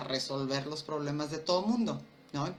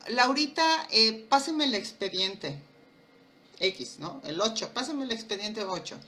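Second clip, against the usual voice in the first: bossy boss; 3 dB louder than usual. Retold or imitated. Boss ordering secretary Laurita, bossy call. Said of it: "es el jefe que".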